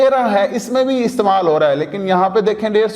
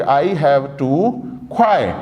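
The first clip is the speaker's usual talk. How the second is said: slow model sentence; 4 semitones lower, much slower than usual. Shown as a demonstration. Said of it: "या फिर".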